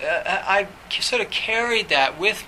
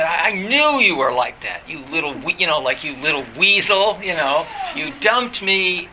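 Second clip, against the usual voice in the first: louder accusing voice, slowing at the end; retold fury; 4 dB louder than usual. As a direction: re-enact a bitter accusation, a touch of anger. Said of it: "he was furious".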